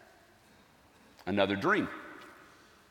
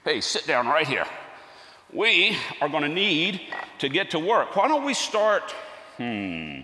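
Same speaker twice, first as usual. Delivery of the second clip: higher and louder, bright sing-song welcome; doting father to a toddler; 5 semitones higher, 3 dB louder than usual. Acted. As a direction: beam at a small child and coax him in. Greeting little Jesus in workshop.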